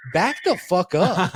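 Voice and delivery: imitating KD snapping back the fuck up; retold angry warning. KD telling the streamer to back off, in a mock angry slow growl.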